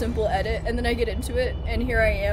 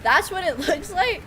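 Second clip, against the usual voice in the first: higher, louder startled question; surprised; 7 semitones higher, 5 dB louder than usual. Real, not acted. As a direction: blurt it in disbelief, pitched up. Surprised reaction to game sight.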